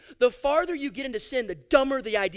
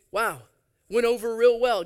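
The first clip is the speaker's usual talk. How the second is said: dry, louder mock praise; sarcastic; 5 dB louder than usual. Preacher mocking Jacob's failed scheme, sarcastic. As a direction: say it like the plan was a triumph.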